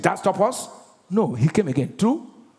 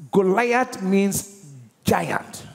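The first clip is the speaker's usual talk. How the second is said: slow teaching emphasis; much slower than usual. Shown as a demonstration. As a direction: repeat it for the class. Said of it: "Means what?".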